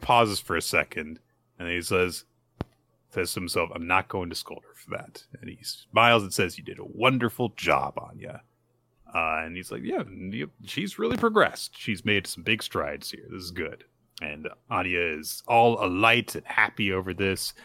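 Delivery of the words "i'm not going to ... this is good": softer, tender fatherly voice; a hint of a kind, soft father; gentle praise. Lloyd gently praises Anya.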